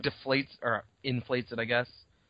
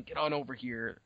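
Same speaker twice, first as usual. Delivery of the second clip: soft beckoning whisper; hushed call; 7 dB quieter than usual. Retold or imitated. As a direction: quietly wave them over. Signaling quietly to others.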